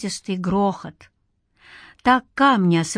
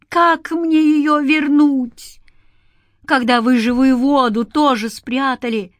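bitter; 5 semitones higher, 4 dB louder than usual. A narrator's reading. Man reproaching spirits for hidden living water, bitter. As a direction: lift the voice in bitter helplessness. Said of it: "горько произнёс Игнат".

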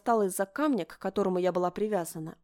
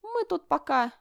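high, sing-song threat; menacing mock sweetness; 9 semitones higher, 6 dB louder, slower than usual. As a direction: promise trouble sweetly. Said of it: "выразительно посмотрела на меня".

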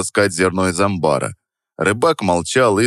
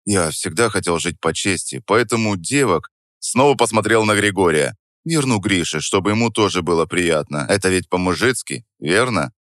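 мягко, с хитринкой. Acted. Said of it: "мягко".

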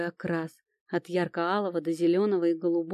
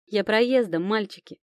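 louder, higher playful answer; merry flirtatious reply; cheerful reply; 3 semitones higher, 4 dB louder than usual.

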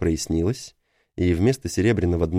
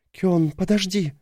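calling out; 11 semitones higher, slower than usual. A narrator's reading. Calling after him.

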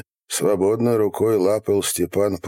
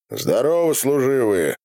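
higher-pitched hailing call; 7 semitones higher than usual. A narrator's reading. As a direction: shout a greeting to soldiers. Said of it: "крикнул". (громкий приветственный оклик)

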